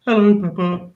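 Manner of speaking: lightly done kids' cartoon voice; Peppa Pig cartoon voice. Dad parroting his kids' favourite show, cartoon voice. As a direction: imitate a character from a preschool cartoon. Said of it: "they both love Peppa Pig".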